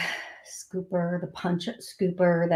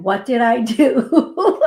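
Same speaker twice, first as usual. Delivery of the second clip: slow, louder, breaking into a laugh; laughing quote; 3 semitones higher, 6 dB louder, slower than usual. Retold or imitated. Quoting her silly question to Jesus, laughing. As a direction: ask it slowly as laughter bubbles up. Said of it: "do you know what my, my blonde butt said to him?".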